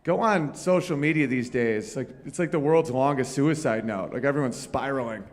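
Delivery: ordinary talk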